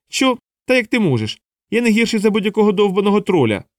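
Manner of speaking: a hammed-up stung dwarf; indignant outburst. Dwarf provoked by taunt.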